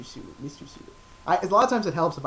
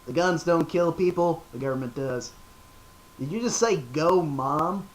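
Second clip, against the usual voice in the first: Dale Gribble. Pretend. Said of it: "I do Dale Gribble".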